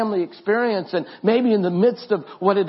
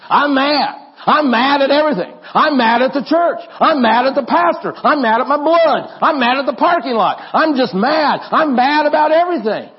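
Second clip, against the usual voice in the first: loud, raised wrestler roar, hammed-up anger; Hulk Hogan; 8 semitones higher, 7 dB louder than usual. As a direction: bellow like a furious pro wrestler. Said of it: "maybe it's the Hulk Hogan voice".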